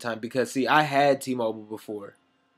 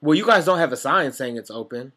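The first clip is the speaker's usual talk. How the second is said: mock complaint; 2 semitones higher, 6 dB louder than usual.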